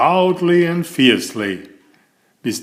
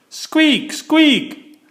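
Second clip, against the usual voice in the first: very high squeaky mouse voice; squeaking mice; 14 semitones higher than usual. Acted. Loudland mice squeaking at each other, very high.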